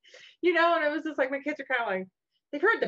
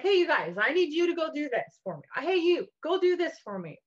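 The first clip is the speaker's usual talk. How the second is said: put-on calling kids; 5 semitones higher than usual. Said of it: "I'm like".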